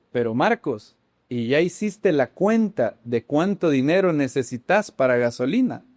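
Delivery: lightly attempted Argentine accent. Church brother questioning Marcos, mild Argentine accent. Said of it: "en acento argentino debió haber sido".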